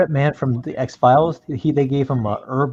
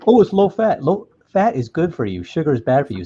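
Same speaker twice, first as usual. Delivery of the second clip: mock label voice; 4 semitones higher than usual. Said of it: "It's like".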